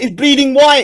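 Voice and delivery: high, startled mock cry; mock excited yelp. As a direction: squeal it out as a joke. Mocking a man in a fight.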